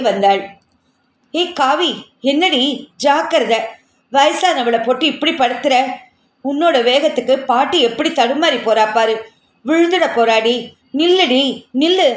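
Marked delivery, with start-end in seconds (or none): 1.3-12.1 shouting. Acted. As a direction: yell at the child to stop. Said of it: "Radha கத்தியபடியே".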